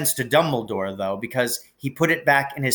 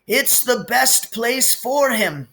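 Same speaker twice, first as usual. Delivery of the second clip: firm; 12 semitones higher, 4 dB louder, slower than usual. A narrator's reading. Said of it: "said Dumbledore firmly".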